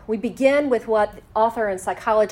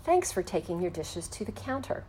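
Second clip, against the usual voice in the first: gentle startup; 7 dB quieter than usual. Shown as a demonstration. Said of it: "A gentle startup would be".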